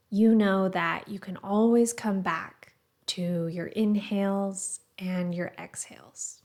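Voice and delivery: calm, measured guiding voice with pauses between phrases; guided meditation. Acted. Meditation teacher guiding listeners to the breath, calm and measured. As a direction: gently lead a meditation, leaving space after each phrase.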